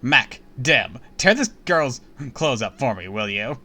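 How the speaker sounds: haughty princess voice. Acted. Rival princess challenges heroine.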